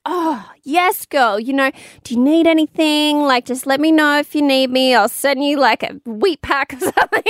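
put-on oh yes girl, what do you need; high, eager supportive friend voice. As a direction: play the doting friend, bright and quick to help. Voicing a caring friend's reply.

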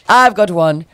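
slow, drawn-out, pleased announcement; Alexis's big pitch. Retold or imitated. Imitating a friend offering a silly caption, slow and drawn out. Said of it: "And she goes".

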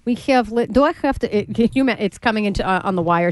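faltering mock Russian newscaster; Russian accent. Newscaster unsure of incoming wire news, halting Russian accent. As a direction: stumble through it in a put-on Russian accent. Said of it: "you do the Russian accent".

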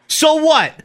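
high, challenging tough-guy comeback; mild defiance. Acted. Host reading a mobster's line, mildly defiant. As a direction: throw it back with some heat. Acted defiant mob quarrel.

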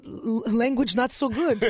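light broken-English foreign accent; halting immigrant English, lightly mocked. Shown as a demonstration. Comic shows her weekend slip, broken-English accent. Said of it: "I have a broken English syndrome".

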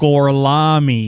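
slow, drawn-out bad Italian; deadpan fake Italian, syllables dragged; terrible Italian accent. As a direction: stretch it out in a clumsy Italian accent. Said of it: "his Italian accent is so terrible".

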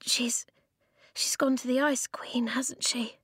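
high, whispery faltering voice; stammering. A narrator's reading. Esker realising Rook went to the Ice Queen, hushed stammer. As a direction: stammer out a fearful question. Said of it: "Esker stammered".

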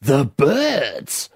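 exasperated mock-Canadian houseguest, rising on "shut up"; roughly imitated Canadian accent. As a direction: imitate a fed-up Canadian, pitch climbing. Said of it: "she had a Canadian accent".

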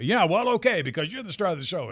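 mock nervous grumble, high-pitched; Stubby K. Old actor conceding to the show's star, high and fretful. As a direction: imitate a fretful old actor half giving in. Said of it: "he's very nervous".

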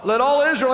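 all hit hard, then falling; all leaned on before Israel; stress on all. Shown as a demonstration. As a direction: punch the word all. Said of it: "say the word all".

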